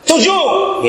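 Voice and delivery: snapped out high and sharp, a laugh in it; angry answer. Shown as a demonstration. Disciples snapping the count back at Jesus, angry. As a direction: bark the number back in irritation. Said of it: "Nah, salah".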